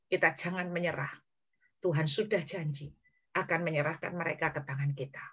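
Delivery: subdued rallying speech, softening as it goes; gentle encouragement. Acted. Preacher as David encouraging six hundred distressed men, gently and quietly. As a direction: quietly urge weary friends to get up. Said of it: "Daud menyemangati enam ratus orang".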